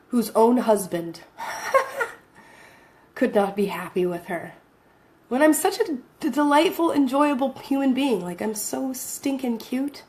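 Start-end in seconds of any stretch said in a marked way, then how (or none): 5.3-10.0 higher, sing-song boast about being delightful; mock self-praise. Real, not acted. To viewers, joking about her ex-husband, in mock self-praise. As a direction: tease herself as irresistibly cute.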